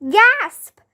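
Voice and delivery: high, loud gasp said as a word; spoken gasp. A narrator's reading. Kids hearing the man got burned, gasping high and loud. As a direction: act out a dramatic gasp. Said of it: "we all gasped".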